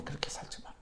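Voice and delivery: whispered echo of the warning. Real, not acted. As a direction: drop to a whisper to drive it home. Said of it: "whispered repeat". (속삭이듯 다시 강조)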